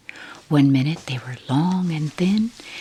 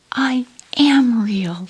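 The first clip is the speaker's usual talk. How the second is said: higher, louder whisper on the edge of tears; near tears; 8 semitones higher, 8 dB louder, slower than usual. Acted. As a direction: hold back a sob, pleading. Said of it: "he nearly began to cry".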